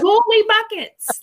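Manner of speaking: high, loud comic amazement; astonished exclamation. Acted. Co-host demonstrating her go-to expression, astonished. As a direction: exclaim it like a goofy swear. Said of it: "usually my go-to is holy buckets".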